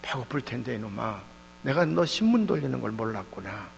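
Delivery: imitating a kindly teacher, subdued; pitying teacher. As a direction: chide gently, with pity. Teacher pities the hungry boy.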